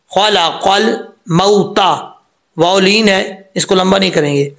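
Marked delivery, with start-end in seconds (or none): 0.1-2.2 खलक़ल मौता very slow, laam closed without added vowel; no echo on laam. Shown as a demonstration. Teacher correcting an echoed laam, slow careful articulation. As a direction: spell out खलक़ल मौता slowly, laam unbounced. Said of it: "कल नहीं करना".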